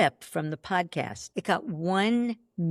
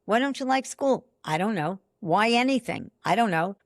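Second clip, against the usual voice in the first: put-on quick parent question, flat kid shrug; parent and kid exchange; 2 semitones higher than usual. Parent quizzing a child, child mumbling back. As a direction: play both sides, question then dull reply. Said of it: "You ask a kid".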